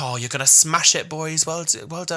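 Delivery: imitated upbeat congratulations; encouraging taxi driver. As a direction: cheer them on as the cabbie. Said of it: "He was like".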